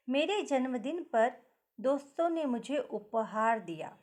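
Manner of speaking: मेरे pressed a little harder; stress on मेरे. Shown as a demonstration. Teacher reading to pupils, stressing मेरे. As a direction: lean on मेरे, my own birthday. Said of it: "रेखांकित शब्दों पर स्वर भार देकर पढ़िए".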